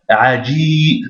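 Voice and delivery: "Aji" with a long held i; "Aji" drawn out on the i; prolonged i. Shown as a demonstration. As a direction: stretch the final vowel of "Aji". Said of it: "c'est la prolongation du i".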